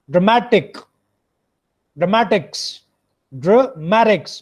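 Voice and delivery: ड्रामेटिक्स with a short first syllable, stressed मे; stress on मेटिक्स. Shown as a demonstration. Teacher models ड्रामेटिक्स for students, stress on मेटिक्स. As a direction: punch the मे in ड्रामेटिक्स. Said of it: "मेडिक्स पे stress है".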